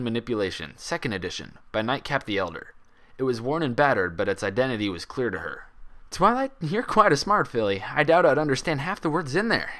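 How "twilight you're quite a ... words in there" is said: smiling. A narrator's reading. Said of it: "he said with a smile".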